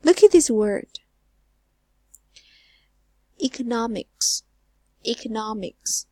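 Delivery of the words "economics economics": "Economics" with weight on NOM; third-syllable stress. Shown as a demonstration. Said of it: "fall on the third syllable".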